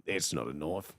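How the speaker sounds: very low, soft mock-Australian; Australian accent. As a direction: drop deep into an Australian tough-guy voice. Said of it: "How to be Australian".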